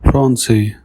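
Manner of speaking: "Français" with ç said as S; French "Français", the C softened to S; soft S sound. Shown as a demonstration. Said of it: "the C has a soft S sound".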